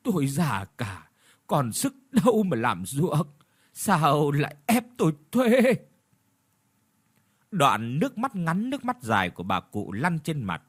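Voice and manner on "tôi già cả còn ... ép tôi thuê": crying out in pain. Acted. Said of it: "bà cụ đau đớn kêu gào".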